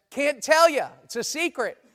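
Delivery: mock-secretive, sing out the refusal; playful refusal. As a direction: play a spouse keeping a secret. Acted spouse coyly refusing.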